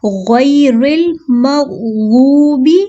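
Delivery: very slow melodic tajweed recitation; Quran recitation. Shown as a demonstration. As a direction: draw it out as tilawat. Recites verse. (धीमी तिलावत)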